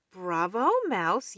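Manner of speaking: loud cheering for a friend; yell. Acted. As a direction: cheer Mouse on. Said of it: "yelled Mole".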